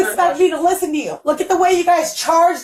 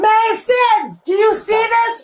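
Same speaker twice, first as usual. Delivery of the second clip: shouting; 6 semitones higher, slower than usual. Real, not acted. Yelling for son to record.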